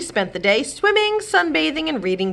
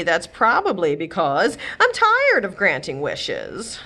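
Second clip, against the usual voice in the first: muttered. Acted. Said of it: "the fairy godmother muttered".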